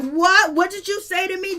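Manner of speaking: high-pitched, taken-aback retort; mock shock. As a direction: act out her stunned disbelief. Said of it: "She is shocked. She is surprised".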